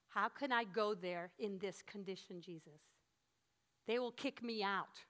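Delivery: acted doubt. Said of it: "they look at themselves and they go".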